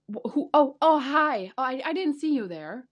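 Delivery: high, feigned surprise; fake bewildered. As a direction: act startled, overdone. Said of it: "you have to look bewildered".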